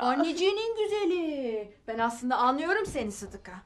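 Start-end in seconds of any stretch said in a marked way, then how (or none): 0.0-1.7 motherly buttering-up; coaxing endearment. Acted. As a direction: coo it to win her over. Mother coaxing her upset daughter.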